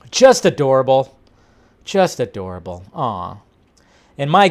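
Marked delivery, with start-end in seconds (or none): 0.1-1.2 bright, eager "Just adorable."; gushing delight. Real, not acted. Cooing at Mark Hamill with Grogu. 1.8-3.4 a soft, lower-volume "Just adorable."; tender murmur. Real, not acted. Repeats, then sighs aw.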